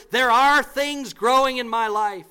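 preacher raising his voice on "are"; forceful preaching. Acted. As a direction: hammer the point home to the pews. Preacher drives home point.

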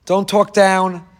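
each word drawn out slowly; slow emphatic. Real, not acted. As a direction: lay it down word by word. Preacher stresses a command.

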